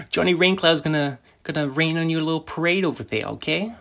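high-pitched mock Italian mobster. Podcaster signing off as the mobster, mock Italian accent. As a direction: slip into the hammed-up Italian mobster.

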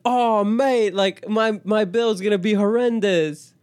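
high, hammed-up British dismay; horrible British accent. British student dreads his bill, horrible British accent. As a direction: lament in a badly faked British accent. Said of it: "I have a horrible British accent".

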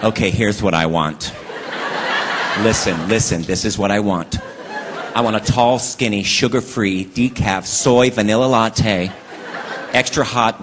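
low, laughing fussy order, drawn out; mock wife's fussy order. Wife ordering at the drive-thru, a low, slow, fussy order. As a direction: reel off the fancy order slowly, enjoying it. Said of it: "Men are easy at Starbucks".

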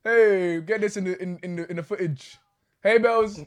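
calling out. Real, not acted. Host hailing a friend for the footage, calling out loudly. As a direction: call it out loudly for the recording.

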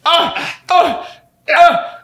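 short high yelps of pain; pained cries. Pretend. Clerk being attacked by the robber, pained yelps. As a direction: cry out high, blow after blow.

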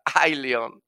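lightly voiced, laughing monkey; monkey excusing itself to the lion, half laughing; sheepish little monkey. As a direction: talk your way out, chuckling. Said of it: "el changuito le contesta".

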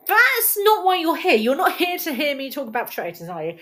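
mock-stern nudge back on topic; mock scolding. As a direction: tell the audience off playfully.

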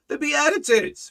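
high-pitched repeated answer; emphatic exclamation. Real, not acted. Preacher repeats his answer for the listeners, emphatically.

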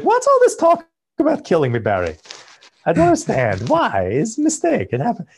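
put-on high-pitched, protesting Chechen accent; NoHo Hank. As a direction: imitate a bewildered Chechen mobster pleading his case. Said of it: "his accent is worth tuning in for".

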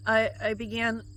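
fighting back real tears; on the edge of weeping; choked up. Real, not acted. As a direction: voice catching with tears. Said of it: "I'm having a hard time with my emotions".

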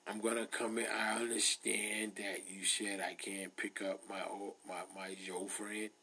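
a hint of a frail old man, soft and hushed; lightly voiced old man on the phone. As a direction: play a sickly old man phoning the pharmacy, mostly breathy whisper. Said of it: "I got my old man voice".

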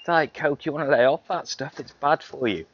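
mock a preachy listener; nagging listener voice. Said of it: "feel empowered to go".

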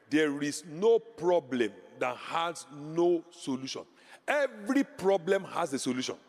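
slow, each word spaced for writing it down; slow dictation. Shown as a demonstration. Pastor dictating to note-takers, slow and deliberate. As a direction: dictate it slowly so they can write. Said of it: "you emphasize it".

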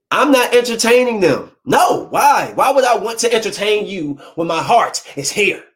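emphatic lovesick denial, acted out; indignant protest. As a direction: play an ex protesting their devotion. Voicing ex's indignant phone protest.

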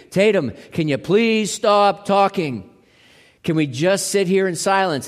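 gentle grandpa plea. Retold or imitated. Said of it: "I'm gonna have to say to her, as her grampy".

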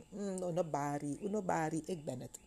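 soft, soothing reassurance; acted calming voice, softening at the end; reassuring. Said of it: "stelt ze onmiddellijk te rust".

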